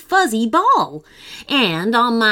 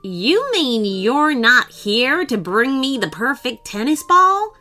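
shocked; 2 semitones higher, 3 dB louder than usual. Acted. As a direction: caught off guard. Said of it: "Baron von Ballgame looked shocked".

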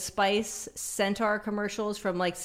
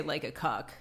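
lower, softer lyric twist; low mock singer; 4 semitones lower, 7 dB quieter than usual. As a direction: drop it low and mutter. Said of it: "he would just say".

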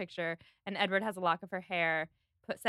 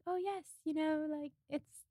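light, airy and higher, a dreamy Luna Lovegood lilt; Lucy's floaty voice; 8 semitones higher than usual. Retold or imitated. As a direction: float the words like a dreamy girl. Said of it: "the way that she talks".

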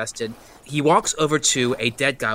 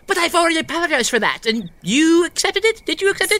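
hurt pleading; 3 dB louder, faster than usual. Acted.

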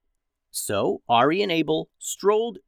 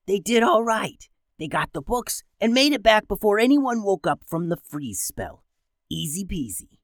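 higher, smug and gloating; smug villain voice; 6 semitones higher than usual. Acted. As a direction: brag about the easy job. Villain Red Cloak gloating.

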